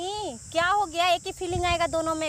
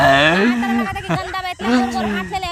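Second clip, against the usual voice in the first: mock loud tease; 6 semitones lower, 8 dB louder than usual. Prankster teasing back, louder.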